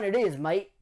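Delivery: put-on "my number one" stretched out in a hammy Australian accent; terrible Australian accent. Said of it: "sorry again for the terrible Australian accent".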